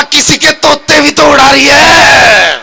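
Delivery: slow, stretched-out mock outcry; hammed-up indignant comeback; exasperated retort. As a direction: shoot back, dragging out the last word. Man's exasperated retort to grandmother's wail.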